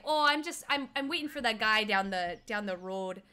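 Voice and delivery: loud Minnesotan start, settling down; bad Minnesotan accent. Door-holder explaining his wait, mock Minnesota accent. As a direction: round the O's like a mock Minnesotan. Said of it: "my Minnesotan accent is so bad".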